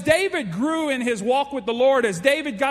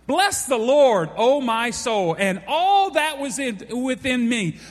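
proclaimed; 3 semitones higher, slower than usual. Shown as a demonstration. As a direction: proclaim it to the whole church. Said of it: "he wants to hammer home the point".

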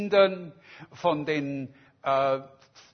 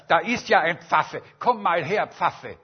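loud, mocking jeer; scornful summons; 6 dB louder than usual. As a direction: bark it at him with contempt. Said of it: "sagt er".

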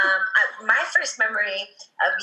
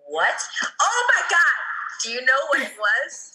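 shocked; 5 semitones higher than usual. Retold or imitated. Retold shocked reaction.

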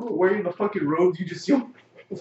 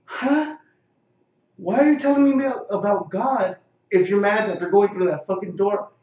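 higher, louder confused protest; baffled outburst; 4 semitones higher, 5 dB louder than usual. Retold or imitated. Questioning the guard's sermon, loud and baffled. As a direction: demand an explanation, thrown off.

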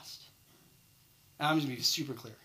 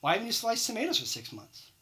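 "Why haven't you sliced tomatoes for six months?" asked a touch higher; a manager pressing the employee, a little higher; questioning manager; 4 semitones higher than usual. Retold or imitated. Manager quizzing the tomato slicer, lightly raised questioning voice. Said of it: "You're gonna ask them why".

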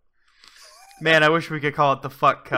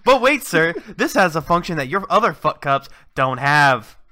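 infomercial. Pretend. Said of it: "throughout the entire advertisement".

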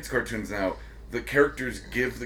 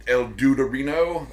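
hammed-up Spanish kid host; cheesy Spanish cartoon host voice; fake foreign language; 2 semitones higher, 6 dB louder than usual. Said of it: "and he'd be like".

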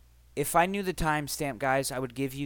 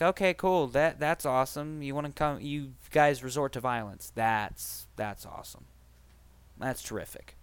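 sarcastic. Retold or imitated. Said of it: "proceeded to get angry".

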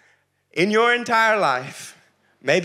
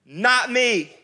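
high, loud, slow protest; exclamation; 6 semitones higher, 4 dB louder, much slower than usual. Acted. Peter loudly protesting to Jesus he won't fall. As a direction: cry it out, refusing the very idea. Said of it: "Peter says with exclamation".

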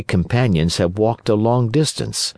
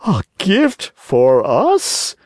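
mock insulted; 11 semitones higher, 4 dB louder, much slower than usual. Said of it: "pretending to be insulted".

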